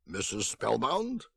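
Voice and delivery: put-on slow, lightly accented question; drawn-out old-country accent, ending on a rise. A narrator's reading. Old man at a stranger's door, old-country accent. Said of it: "He had an accent".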